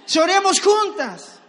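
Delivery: loud, high, drawn-out mock wail of sympathy; women angels. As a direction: ham it up as a woman inviting a shared cry. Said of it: "si hubieran sido mujeres, ¿cómo hubiera sido?".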